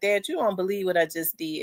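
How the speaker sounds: mock soft, tearful voice through crying. Retelling a phone call to dad, acting out own crying. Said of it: "I was crying".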